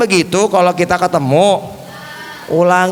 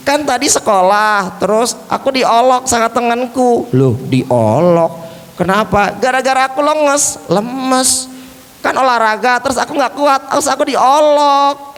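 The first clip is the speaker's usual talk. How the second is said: high puppet voice, mildly complaining; sad puppet Ali; 5 semitones higher than usual. Pretend. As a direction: recount the teasing as a put-on little character. Puppet tells of being teased.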